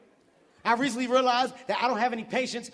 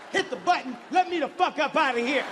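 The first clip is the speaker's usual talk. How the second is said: raised, higher voice of someone losing patience; snapping angrily; 5 semitones higher than usual. Retold or imitated. Driver snapping at booth attendant, exasperated and higher-pitched. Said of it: "I fucking lost it. I snapped".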